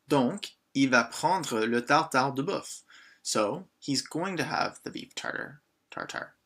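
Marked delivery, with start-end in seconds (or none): 0.1-2.8 slow, careful French model sentence; drawn-out teaching read. Shown as a demonstration. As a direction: say it slowly for learners to copy. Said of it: "teacher models the French order".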